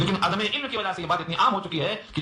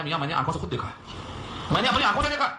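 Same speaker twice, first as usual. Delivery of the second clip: mock eager claim, pitched higher; hammed-up insistence that he saw it himself; imitating zealous insistence; 5 semitones higher, faster than usual. Preacher imitating a man who swears he saw it. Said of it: "تو بڑے جوش میں کہتا ہے".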